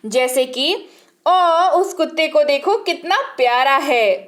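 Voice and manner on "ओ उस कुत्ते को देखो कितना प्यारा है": fond coo at a puppy; adoring aww. Shown as a demonstration. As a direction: melt at something cute. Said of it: "प्यारी चीज की प्रशंसा".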